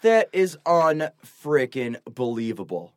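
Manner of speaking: slow, low, drawn-out disbelief; low and deliberate, appalled; stunned disbelief. Real, not acted. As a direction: let each word land, dumbfounded. Stunned reaction to the story.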